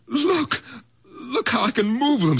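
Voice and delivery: joy bursting out; high excited cries; elated. Acted. Shows healed hands, elated.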